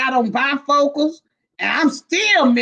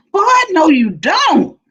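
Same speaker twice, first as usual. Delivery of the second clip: laughing protest; 5 semitones higher, 4 dB louder than usual. Real, not acted. Teasing friend about strippers.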